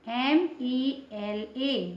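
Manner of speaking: letters spelled out slowly one by one; slow spelling. Shown as a demonstration. Teacher spelling a word slowly for students. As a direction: dictate each letter slowly for the class. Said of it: "teacher spells out letters".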